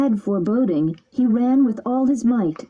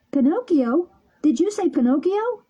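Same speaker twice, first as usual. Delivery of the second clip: excited shout; 8 semitones higher than usual. A narrator's reading. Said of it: "shouted the puppet".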